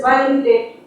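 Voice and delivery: easy, casual question; "Why are you late?" asked casually. Shown as a demonstration. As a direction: ask it lightly, no weight. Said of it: "It's a very casual tone".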